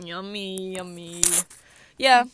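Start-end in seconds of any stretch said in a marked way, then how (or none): 0.0-1.2 low, soft ASMR murmur; hushed joke ASMR voice; mock ASMR. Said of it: "You guys want A S M R?".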